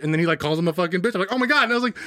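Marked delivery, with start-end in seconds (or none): 1.3-1.6 laughing. Retold or imitated. Retold reaction, laugh heard.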